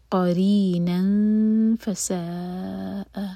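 قَرِينًا فَسَاءَ with the tanween ن hidden into the ف; slow, blurring the ن of قَرِينًا nasally. Shown as a demonstration. Teacher recites قَرِينًا فَسَاءَ slowly for a student. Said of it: "نون کی تنوین کے بعد فا".

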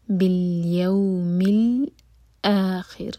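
بِالْيَوْمِ with a gently drawn يَوْ, then a clean ء in الْآخِرِ; slow, leaning lightly on يَوْ; soft madd leen. Shown as a demonstration. Teacher models بِالْيَوْمِ الْآخِرِ slowly. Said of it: "یو مد لین ہے".

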